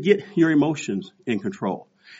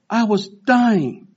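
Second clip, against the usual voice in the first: out of breath; 8 semitones higher, 3 dB louder, much slower than usual. Retold or imitated. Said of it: "I'm huffing and puffing".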